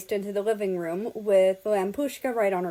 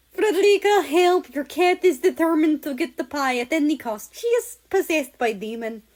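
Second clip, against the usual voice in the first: loud and much higher, frantic; panicked call for help; 7 semitones higher, 6 dB louder than usual. Acted. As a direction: yell for rescue while a cat climbs you. Man fighting cat, calls for help.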